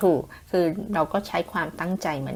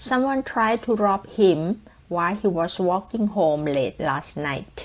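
example sentence read; much slower than usual. Shown as a demonstration. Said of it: "เช่น".

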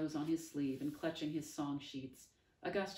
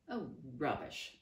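snapping. Acted. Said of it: "Augustus snapped".

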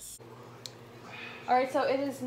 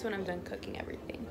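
whispering; 6 dB quieter, faster than usual. Real, not acted. Quiet aside while cooking.

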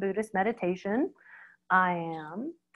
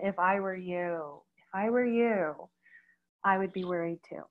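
reassuring; 3 semitones lower, 5 dB quieter than usual. Shown as a demonstration. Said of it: "I love the statement".

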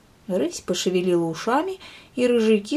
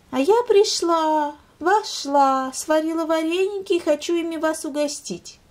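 innocent lynx; 10 semitones higher, 3 dB louder than usual. Acted. Lynx justifies herself sweetly.

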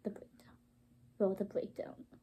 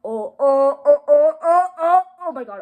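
ohs climbing higher and louder; mounting anticipation; 4 semitones higher, 7 dB louder than usual. Real, not acted. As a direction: build each "oh" toward an excited peak. Anticipation builds before breakdown.

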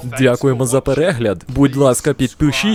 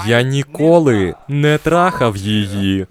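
"ніколи" and "трахав" leaned on, slow; slow stressed denial; slower than usual. Acted. Husband insists to wife he never slept with her. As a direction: spell out the denial word by word. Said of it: "лапки — це саркастична іронія".

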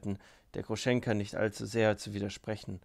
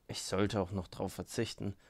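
grumbling; 4 semitones lower, 3 dB quieter than usual. Acted. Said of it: "brummte Rakitin".

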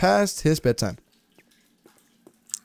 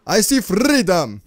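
excited cry; 4 semitones higher, 4 dB louder than usual. Real, not acted. Spots the cave exit.

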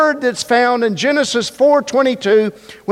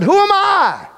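Moses doubting; 2 semitones higher than usual. Acted. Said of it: "he said".

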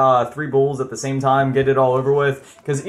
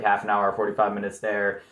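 ordinary delivery

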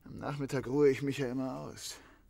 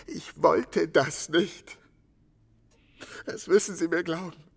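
slow, louder, pained denial; anguished plea; 7 dB louder than usual. Acted. Suspect pleading with the detective, anguished and slow. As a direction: drag each word out in despair.

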